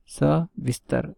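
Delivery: सविस्तर drawn out slowly, short त, clear final र; slow correct form. Shown as a demonstration. Teacher slowly spells out the right word for students. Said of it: "सविस्तर is correct".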